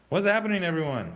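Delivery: startled question to the viewers; alarmed. Real, not acted. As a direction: call out to everyone in alarm.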